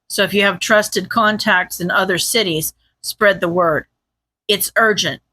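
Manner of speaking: a hint of a grave, controlled commander; terse hero. Reads the hero's urgent orders.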